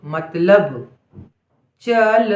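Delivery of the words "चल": measured dictation; चल split into च and ल; syllable by syllable. Shown as a demonstration. Dictating word sound by sound.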